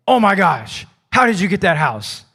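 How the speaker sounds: mildly astonished, pitch lifted on the exclamation; amazed onlooker. Acted. Onlooker reacting to someone's new house, mildly amazed. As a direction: play an onlooker's mild amazement.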